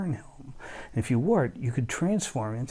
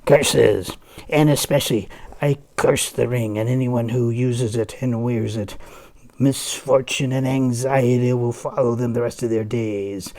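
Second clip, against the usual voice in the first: dramatic curse; 6 dB louder than usual. Acted. Alberic curses the ring.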